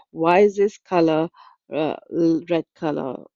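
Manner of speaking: hammed-up grumble about a red color; mock complaining. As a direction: imitate her griping about everything. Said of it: "that's the way she was actually complaining".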